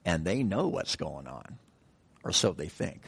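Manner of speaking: dry, low-pitched sarcasm with a pause; sarcastic. Real, not acted. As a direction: drop the voice into quiet irony. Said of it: "I'm being sarcastic".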